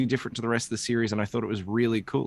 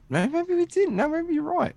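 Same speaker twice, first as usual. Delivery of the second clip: sarcastic. Pretend. Sarcastic backpedal.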